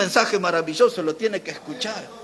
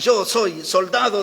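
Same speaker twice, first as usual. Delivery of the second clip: slow, weighty stress on "Yo soy soldado"; emphatic; slower than usual. Retold or imitated. Preacher quoting a pastor's soldier declaration to church, emphatic. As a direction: quote "Yo soy soldado" firmly, each word weighted. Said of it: "él decía con énfasis".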